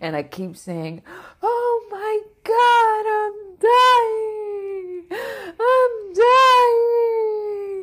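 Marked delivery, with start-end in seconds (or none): 1.4-7.8 acted, very high, very slow sobbing scream. Retelling repeating the words outside, retelling own crying scream. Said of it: "I'm just crying and screaming".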